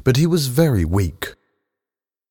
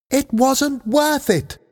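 higher, slow anguished shout; slower than usual. A narrator's reading. Lee Sing shouting at Andrew over his fatal operation, higher anguished shout. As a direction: cry out the words in despair, much higher. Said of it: "shouted Lee Sing".

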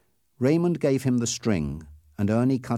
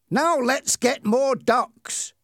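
eager; 4 dB louder, much slower than usual. Acted. Bully eager for more hunting.

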